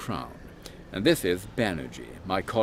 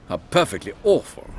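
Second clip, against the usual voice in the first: appalled; 9 semitones higher, 7 dB louder than usual. Acted. Reacting to a gruesome description.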